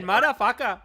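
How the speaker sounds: loud imitation of a botched accent; mock Asian-sounding accent. Friend teasing the speaker, mocking the Asian-sounding accent. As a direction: mimic the accent slipping into Asian. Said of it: "he said".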